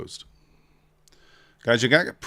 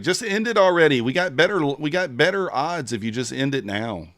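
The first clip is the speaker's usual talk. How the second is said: mock impatient chat; 5 semitones higher, 4 dB louder than usual. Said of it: "Everybody's like".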